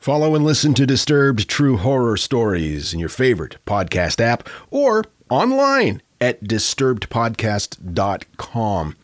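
usual speaking voice

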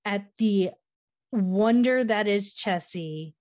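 slow, deliberate outrage, broken by pauses; indignant. Retold or imitated. Viewer scolding Meredith for ringing a bell for Chessie, indignant. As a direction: spell out the affront phrase by phrase. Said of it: "very indignant about that fucking bell".

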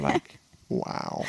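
a hushed, airy wow; breathless wow. Real, not acted. Brother in awe of his sister's voice, breathless. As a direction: let it out on a breath, awed.

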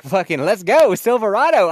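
loud, high, pumped-up cheer; yelling at the truck to go; hyped shout. Retold or imitated. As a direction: fire yourself up like a gearhead. Hyped self-quote in truck.

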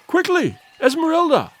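high-pitched urgent call; alarmed cry. A narrator's reading. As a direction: cry out to hurry her along. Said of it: "he cried".

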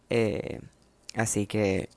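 talking between sips of coffee; sipping coffee. Real, not acted. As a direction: speak right after a sip of coffee. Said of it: "perdón, estoy bebiendo café".

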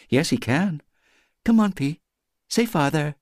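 put-on high, sing-song coaxing of a baby; coaxing baby talk. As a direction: lure the little one into saying father. Moeder leert kind praten.

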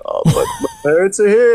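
high, rising disbelief with a laugh; retold astonishment. Skater hearing his parents came, retold astonishment.

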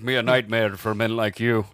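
measured action-hero threat; Liam Neeson. Acted. Kidnapped girl's father warning her captors, mock menace. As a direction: put on a mock Irish tough guy. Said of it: "is this Liam Neeson?".

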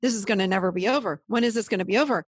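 rattling off worries fast, half-acted panic; mock anxious spiral. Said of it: "So we say".

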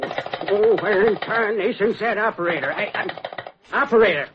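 frantic high-pitched phone call; scared old farmer, rushing; panicked. Acted.

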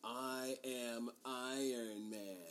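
slow, grave declaration; solemn Iron Man line. Retold or imitated. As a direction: deliver it slow and weighty. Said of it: "has the".

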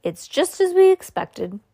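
high-pitched cheerful reassurance; brightly. A narrator's reading. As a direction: play it up brightly for the child. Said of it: "said Grandpa Joe brightly".

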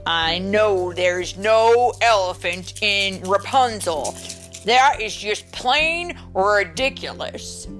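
emphatic, mildly exasperated; exasperated papa. Acted. Papa tells chicken Rapunzel has no elephant, exasperated. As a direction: insist firmly, a touch fed up.

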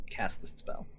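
secretive spellcasting whisper; whispered spell. Acted. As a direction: breathe the spell out under your breath. Casting a spell away from camp.

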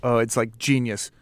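low, soft, deadpan sarcasm; understated mock praise, quietly dropped; sarcastic. Real, not acted. Host teasing co-host about his cooking-show idea, sarcastic. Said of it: "I sense a little sarcasm there".

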